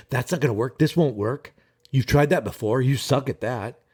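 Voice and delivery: a lightly voiced nagging inner monster; mind monster. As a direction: sneer it like the voice in your head. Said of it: "The mind monster and all its self-loathing".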